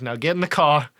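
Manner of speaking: put-on gruff Brooklyn accent order. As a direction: tough Brooklyn guy voice. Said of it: "got a real thick Brooklyn accent".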